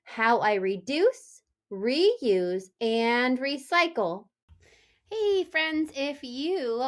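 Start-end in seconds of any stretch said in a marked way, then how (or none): 0.0-4.3 the three R's said slowly and clearly; slow repeat. Shown as a demonstration. Teacher repeating the three R's for the class, slow. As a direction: spell out reduce, reuse, recycle. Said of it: "think about those three R's".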